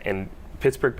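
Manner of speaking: ordinary delivery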